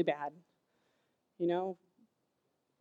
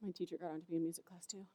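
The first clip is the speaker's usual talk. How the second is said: little brother; 4 semitones lower, 17 dB quieter, faster than usual. Retold or imitated. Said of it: "Manny comes over and he goes".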